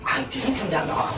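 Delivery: high puppet voice; cheerful little puppet, high-pitched; weirdly cheerful jester. Acted. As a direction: pitch it up like a talking toy. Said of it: "just the voice".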